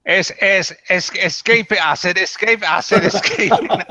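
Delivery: loud, high hammed-up Southern accent. Player reading a note to the table, loud hammed-up Southern accent. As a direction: belt it out in an over-the-top Southern accent, laughing through it. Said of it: "if you read this with a Southern accent".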